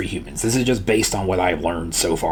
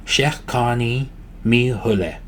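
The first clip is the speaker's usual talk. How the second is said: Shekani Mihule slowly, part by part; slow practice model. Shown as a demonstration. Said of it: "practice breaking this down".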